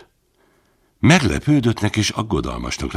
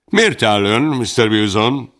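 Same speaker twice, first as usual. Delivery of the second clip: snappish question; 4 semitones higher, 3 dB louder than usual. Acted. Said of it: "Bilson harapósan kérdezte".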